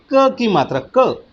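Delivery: short क said quick and clipped. Shown as a demonstration. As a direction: say क short, one beat. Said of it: "क उच्चारण में कम समय लगा".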